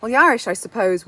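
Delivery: ordinary talk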